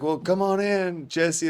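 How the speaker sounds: imitated welcoming parents. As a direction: play the parents politely inviting a guest in. Parents inviting him in, retold.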